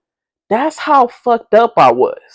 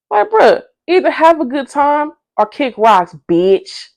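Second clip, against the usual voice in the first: exasperated rant; 6 semitones higher than usual. Real, not acted. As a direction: vent like you're done with her. Ranting at Tree Bark.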